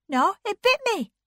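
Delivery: high, loud protest; indignant Anne. A narrator's reading. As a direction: fire back an indignant answer. Anne's indignant loud reply.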